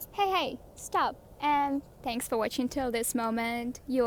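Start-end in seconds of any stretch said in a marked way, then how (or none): 0.1-1.2 calling out to stop. Real, not acted. Calling out to the dog.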